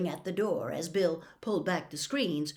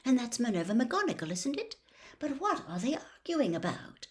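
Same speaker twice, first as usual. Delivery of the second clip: higher, anxious murmur; a touch of worried mother; 5 semitones higher than usual. Acted. Mother at bedside asking what the shouting is, anxious. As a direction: wonder aloud in a worried hush. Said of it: "she whispered".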